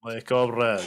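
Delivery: put-on playful Russian accent; mock Russian accent. Player returning comrade's greeting, mock Russian accent. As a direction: answer as a jokey Russian comrade. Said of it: "Do your best Russian accent".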